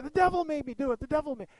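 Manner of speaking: high comic mimicry; mock catchphrase voice. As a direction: parrot the catchphrase in a high, teasing voice. Students repeat the comedian's catchphrase.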